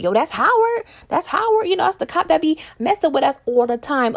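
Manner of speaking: high-pitched, excited imitation; all hyped. Famous spots the cop on a gurney, mock-hyped. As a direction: act out an agitated onlooker spreading news. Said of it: "he all hyped, like".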